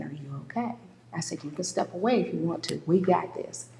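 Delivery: soft, hushed reassurance; gentle comfort. Retold or imitated. Speaker comforting the grieving girl, soft and hushed. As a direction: soothe her quietly.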